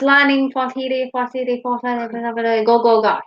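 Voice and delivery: garbled Llanfair place name, slowed and stumbling; mock Welsh place name. Shown as a demonstration. Mock Welsh place name to a friend, stumbling. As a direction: fumble through the long Welsh name. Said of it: "I can't do a Welsh voice".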